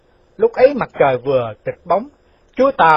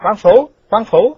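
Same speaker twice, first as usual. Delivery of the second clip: loud, higher, drawn-out call; 6 semitones higher, 8 dB louder, slower than usual. Acted. Chú Tàu rousing the sleeping official, calling out. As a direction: call slowly to rouse him. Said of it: "Chú Tàu kêu".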